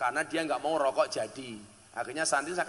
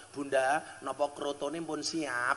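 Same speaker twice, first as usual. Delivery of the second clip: gentle polite question; 2 semitones lower, 7 dB quieter, slower than usual. Retold or imitated. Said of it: "langsung kula matur".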